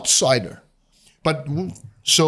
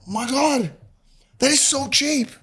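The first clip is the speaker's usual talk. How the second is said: giddy delight; 11 semitones higher than usual. Retold or imitated. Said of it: "it was like".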